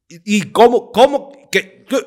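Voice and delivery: loud, high panicked questions; stunned and panicking on the phone; shocked disbelief. Retold or imitated. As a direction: caught off guard and panicking. Panicked reaction to dad's call.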